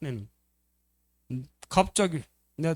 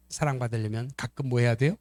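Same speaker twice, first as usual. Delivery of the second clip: ordinary talk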